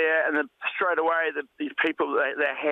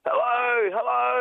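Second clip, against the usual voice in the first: shouting hello; 8 semitones higher, slower than usual. Retold or imitated. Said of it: "I was shouting".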